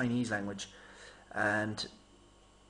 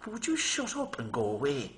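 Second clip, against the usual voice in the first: mock telling-off; 4 semitones higher than usual. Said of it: "all I could do not to say".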